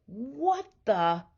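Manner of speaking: breathless whispered surprise; husband waking as the bed falls; startled whisper. A narrator's reading. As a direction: wake up alarmed and hushed. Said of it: "said Mister Watson".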